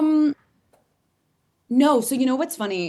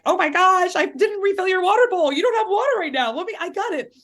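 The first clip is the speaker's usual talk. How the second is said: high, loud flustered apology to the dog; mock panic over the water bowl; panicked apology; 13 semitones higher, 5 dB louder than usual. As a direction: gush out a frantic sorry, voice way up. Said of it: "I'm like".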